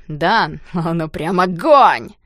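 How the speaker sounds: slow, loud crude tease; boy teasing Danya about the girl; laughing tease. A narrator's reading. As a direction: rib him with a grin. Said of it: "рассмеялся и заявил".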